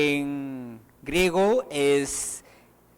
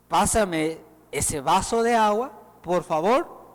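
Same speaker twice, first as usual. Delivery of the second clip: gentle polite request. Shown as a demonstration. Preacher shows a kind tone for a glass of water. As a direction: ask kindly for the glass of water. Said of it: "Hay diferencia en tono de voz".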